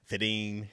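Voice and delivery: "Fitting" for fifteen, the middle F gone; dropped middle consonant. Shown as a demonstration. Midwesterner showing local speech, "Fitting" with a letter killed. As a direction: swallow the F so it lands as "Fitting". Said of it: "it's not there".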